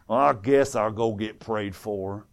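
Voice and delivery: low, soft, slow resignation; mock reluctant. Preacher mimics people coming up for prayer, half-hearted. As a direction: imitate someone dragging themselves to the altar. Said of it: "Act the same way".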